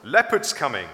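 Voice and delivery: warning. A narrator's reading. Hippo warns that leopard is coming.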